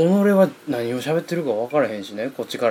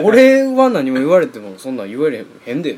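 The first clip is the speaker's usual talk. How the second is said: exasperated retort; 2 semitones higher, 7 dB louder than usual. Retold or imitated. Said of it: "関西弁で言うても".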